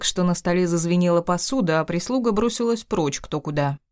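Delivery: plain reading voice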